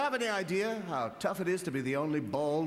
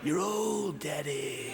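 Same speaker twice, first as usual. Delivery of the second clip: put-on pitched-up whiny kid taunt, leaning on old; mock a small son teasing; weird kid voice; much slower than usual. Son teasing his dad about being old, in a weird kid voice. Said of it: "It's got a weird voice".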